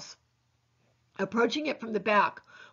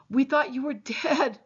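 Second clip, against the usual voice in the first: sobbing; 3 semitones higher, slower than usual. Acted.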